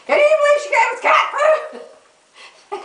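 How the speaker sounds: very high squeaky puppy complaint. Retold or imitated. Puppy Josie griping to Jackie, very high. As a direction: squeak it like an outraged pup.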